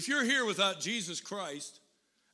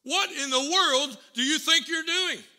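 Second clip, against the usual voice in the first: put-on loud, high, demanding yell at the kid; retold angry shout; 7 semitones higher, 8 dB louder than usual. Driver yelling at the boy who threw a brick, angry shout. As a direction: let him have it, pitch up and loud. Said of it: "he began to shout".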